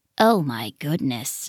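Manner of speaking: muttering under breath. Snake reacts to the portraits of Hamster's family on the wall, muttering. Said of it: "Snake muttered".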